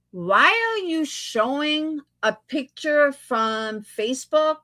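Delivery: slowed, spelled-out question; slow and deliberate. Real, not acted. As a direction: drag the question out slowly. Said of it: "okay, here we go".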